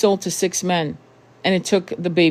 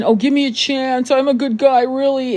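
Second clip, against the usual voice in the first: higher mock-pleading voice of a pushy man; mocking pushy guy; 7 semitones higher than usual. Mimicking a pushy man on a date, in a higher pleading voice. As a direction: whine it like a guy begging for a chance.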